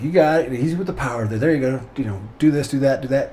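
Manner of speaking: calm, steady talk-down voice; lightly voiced pilot coaching a landing; Bug Roach impression. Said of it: "doing my best Bug Roach impression".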